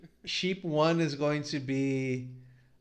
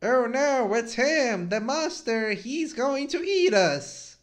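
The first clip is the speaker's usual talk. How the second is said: mock panic; 7 semitones higher than usual. Sheep panics at monster.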